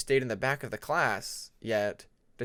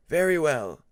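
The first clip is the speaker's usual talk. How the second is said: teacher voice; 6 dB louder than usual. Acted. Teacher Webbs accepts explanation.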